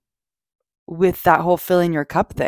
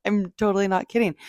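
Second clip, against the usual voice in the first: laughing; 3 semitones higher, 4 dB quieter, faster than usual. Real, not acted. Laughing while insisting she's serious.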